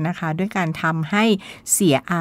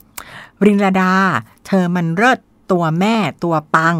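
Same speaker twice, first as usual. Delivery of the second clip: hyped praise; 5 dB louder, slower than usual. Retold or imitated. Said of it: "มาพร้อมกับประโยค".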